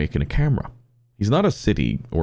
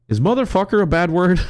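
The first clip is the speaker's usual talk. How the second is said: put-on much higher, louder, innocent child voice; innocent little girl; 12 semitones higher, 4 dB louder than usual. Little girl asking her dad innocently, high-pitched. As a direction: ask it sweetly like a small girl. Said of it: "the daughter goes".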